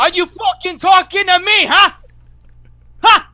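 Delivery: high, loud Boston tough-guy challenge; Boston accent. Retold or imitated. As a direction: shout it like an angry Boston local. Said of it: "That was a pretty good Boston accent".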